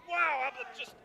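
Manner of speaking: stunned into near silence; speechless amazement. Real, not acted. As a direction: trail off, lost for words. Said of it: "I'm speechless".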